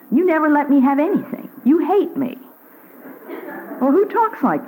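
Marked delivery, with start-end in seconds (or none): 0.1-2.4 put-on whining child. A little child denied ice cream whines at the parent. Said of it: "A little child".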